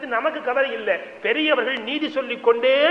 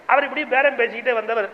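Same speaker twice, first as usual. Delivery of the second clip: normal talking voice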